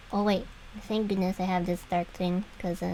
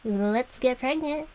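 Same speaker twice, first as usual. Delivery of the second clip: higher, drawn-out mock enthusiasm; eager younger self; 5 semitones higher, slower than usual. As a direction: lightly play your gung-ho younger self. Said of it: "Younger me was like".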